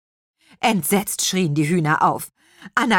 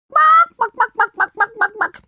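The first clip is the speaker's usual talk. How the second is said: indignant clucking; 8 dB louder than usual. A narrator's reading. Outraged hen clucking.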